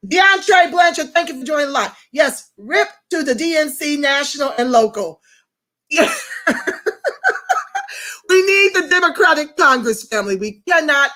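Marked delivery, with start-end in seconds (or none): 6.2-8.2 a soft, high, drawn-out laugh. Real, not acted. Mocking the DNC to her viewers, a soft high laugh. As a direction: laugh quietly but high. Laughs after the rip joke.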